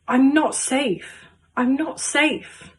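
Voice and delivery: understated rising anxiety; feeling trapped. Acted. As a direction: say it slowly, as if trapped in the harness. Voices feeling trapped on the ride.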